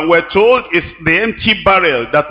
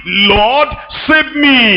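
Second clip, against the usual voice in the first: urgent cry; 3 semitones higher, much slower than usual. Retold or imitated. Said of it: "told the Lord exactly what he wanted".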